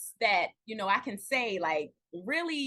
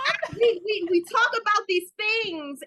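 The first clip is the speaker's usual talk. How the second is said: on the verge of tears; 8 semitones higher, 4 dB louder than usual. Real, not acted. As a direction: voice catching with tears. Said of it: "don't make me start crying on here".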